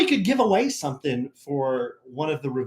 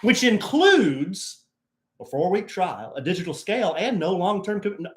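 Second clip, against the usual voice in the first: mock ad read; 5 semitones higher than usual. Jokingly reads a diet ad.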